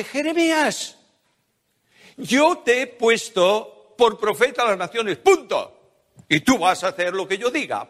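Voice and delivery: a hint of God settling the matter with a nervous Jeremiah; firm divine voice. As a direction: lay down the law kindly but firmly. God answers Jeremiah firmly.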